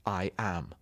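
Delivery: "I am" with the weight on am; light da-DUM, landing on "am"; iambic stress. Shown as a demonstration. Actor demonstrating the iamb, stress on am. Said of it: "with the stress on the second part".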